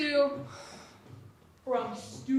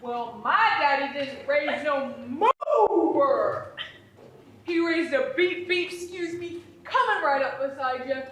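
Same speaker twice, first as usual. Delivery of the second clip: mock tough boast; 3 semitones higher, 4 dB louder than usual. Mock tough standoff retort.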